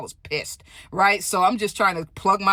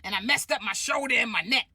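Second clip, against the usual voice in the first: indignant shout; 2 semitones higher than usual. Retold or imitated. Stud shouting at the orderly that she drives for Lyft, indignant. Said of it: "She said".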